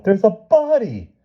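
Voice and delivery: put-on high, loud, slow child's wail; boy wailing to his mother. A narrator's reading. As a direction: stretch it out, a desperate boy. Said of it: "he wailed".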